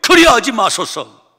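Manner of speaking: rebuking shout. Acted. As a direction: shout him down in protest. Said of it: "호통을 칩니다".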